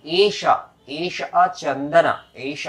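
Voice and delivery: slow, stretched-out Sanskrit words; deliberate demonstration of a ritual formula; mantra recitation. Shown as a demonstration. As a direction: draw out each word for learners to repeat. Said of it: "अब आप कहिए".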